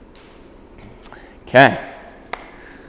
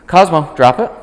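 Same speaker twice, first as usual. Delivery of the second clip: louder, raised "Cosmo, drop it"; firm command; 7 semitones higher, 7 dB louder than usual. Shown as a demonstration. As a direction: order the dog to let go. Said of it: "when I say drop it".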